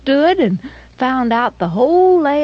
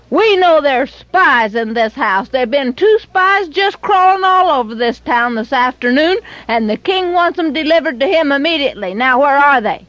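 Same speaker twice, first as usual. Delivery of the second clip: louder, higher, demanding soldier; gruff soldier demand; 5 semitones higher, 3 dB louder than usual. Acted. Soldiers at Rahab's door demanding the spies, loud and stern. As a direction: bark out the king's orders.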